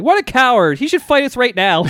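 high, loud, indignant outburst; loud mock shout. Hothead walking home with his friend, mock indignant shouting. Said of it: "very loudly shouting".

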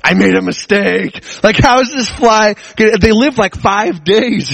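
high, slow little fly voice; lightly voiced, high-pitched fly fretting on the glass; voicing the fly. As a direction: give the fly a small high worried voice. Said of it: "I'm thinking he's probably like".

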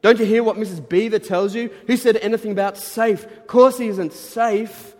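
high, loud indignant storybook voice; scolding beaver. Acted. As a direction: exclaim it in exasperated disbelief.

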